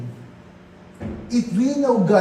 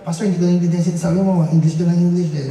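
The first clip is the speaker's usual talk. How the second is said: mock complaining listener; 3 semitones lower, 4 dB louder, much faster than usual. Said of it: "Kung halimbawa".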